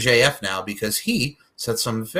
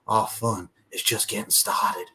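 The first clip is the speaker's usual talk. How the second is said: imitated Southern drawl, cult-leader menace; a wrestler's put-on Southern drawl; Southern twang. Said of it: "the twang comes back".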